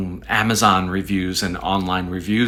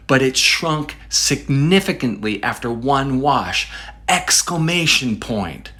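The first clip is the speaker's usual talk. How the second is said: higher pitch, punching "significantly" and "one wash"; emphatic re-reading; 4 semitones higher than usual. Acted. Showing viewers the striking line, "significantly" stressed high. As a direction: draw out "exclamation point" high for effect. Re-reads the line that draws him in.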